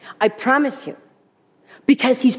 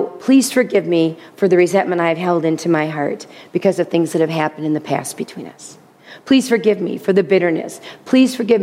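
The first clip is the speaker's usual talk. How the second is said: humble apology; 5 semitones lower than usual. Pretend. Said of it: "For instance".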